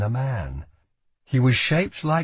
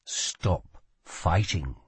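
low, slow, sinister inner voice; eerie low command; voice in his head; 5 semitones lower, 5 dB quieter, much slower than usual. A narrator's reading. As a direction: speak softly and slowly inside his head. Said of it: "said a voice in his head".

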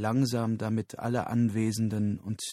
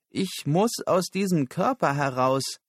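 high, loud, distressed voice; desperate plea; 7 semitones higher, 5 dB louder than usual. Acted. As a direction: insist you cannot bear it. Verzweifelte Figur will den Körper verlassen. (verzweifelt und hoch)

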